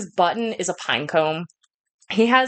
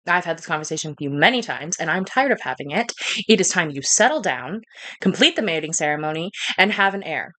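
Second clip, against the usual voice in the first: measured, firm royal mother; stern queen mother, weary; 2 semitones lower than usual. Acted. Queen telling daughter to marry, lightly voiced firm mother. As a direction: lay down the law as a tired mother.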